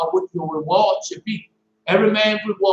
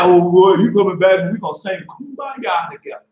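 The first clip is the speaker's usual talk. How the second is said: mocking quote. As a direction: sneer at the Kumbaya idea. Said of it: "That's a lie".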